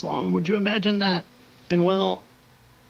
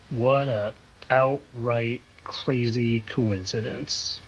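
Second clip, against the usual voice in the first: heavy sarcasm; 3 semitones lower, slower than usual. Acted. Sarcastic conspiracy vlogger.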